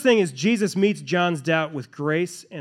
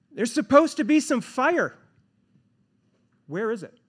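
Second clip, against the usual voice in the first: raised, urgent prophet's complaint; a frustrated prophet pleading his case, pitched higher; indignant John; 3 semitones higher than usual. Acted. John in prison complaining to Jesus, raised and indignant.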